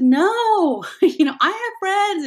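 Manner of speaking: high loud laughing reply; laughing daughter. Retold or imitated. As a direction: brush it off with a laugh. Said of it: "She said".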